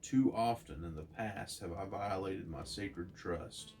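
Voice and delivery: grave, measured cosmic proclamation; Watcher's speech. Acted. Narrator reading the Watcher's verdict to Betty, solemn. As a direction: pronounce doom on Earth like an ancient watcher. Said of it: "The Watcher says".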